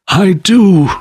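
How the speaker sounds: high, eerie ghost voice; unearthly voice. A narrator's reading. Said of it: "the spectre's voice disturbed the very marrow".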